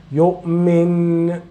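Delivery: يؤمن ending on a clear n; original noon. Shown as a demonstration. Teacher shows pausing after the word, noon kept. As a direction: stop on يؤمن and keep the noon. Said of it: "Without making any change".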